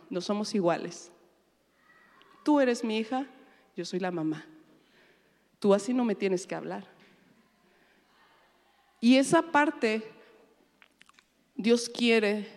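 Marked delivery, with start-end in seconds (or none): none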